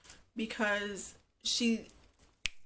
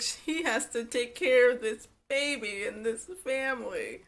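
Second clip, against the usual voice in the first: mock unexcited mother; 2 semitones higher than usual. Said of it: "Like, she was not".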